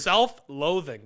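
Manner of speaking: SELF-LOATHING said slowly and deliberately; careful articulation. Real, not acted. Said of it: "That's hard to say".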